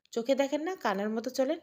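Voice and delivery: put-on a small boy lashing out after a fall; cheeky angry child. Fallen child scolding Mahin, high and indignant.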